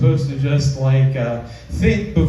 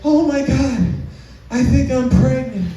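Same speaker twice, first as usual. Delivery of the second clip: mimicking a crying girlfriend; 7 semitones higher than usual. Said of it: "she was crying and she said".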